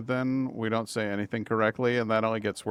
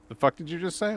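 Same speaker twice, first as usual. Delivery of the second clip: imitating angry brother; 7 semitones higher than usual. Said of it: "he got mad".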